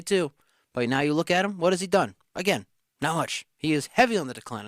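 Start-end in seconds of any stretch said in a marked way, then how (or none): 3.6-4.7 heavy leaned on hard, decline falling off after it; stress on heavy. Shown as a demonstration. Host slamming Kamara's slide, stress on heavy. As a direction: punch the word heavy, then let on the decline drop. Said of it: "I emphasize the word heavy".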